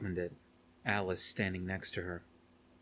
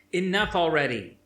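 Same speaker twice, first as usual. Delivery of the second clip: much higher, louder furious shout; angry shout; 9 semitones higher, 8 dB louder than usual. Acted. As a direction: cut him off hard. Rain snaps at Spence.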